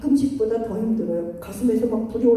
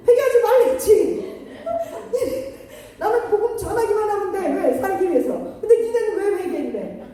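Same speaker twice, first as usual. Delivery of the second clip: higher, laughing mock-angry Jonah; mock Jonah rant; 6 semitones higher than usual. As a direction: ham up Jonah's petulant fury, half laughing. Jonah voiced ranting at repentance. (웃으며 과장된 요나의 짜증)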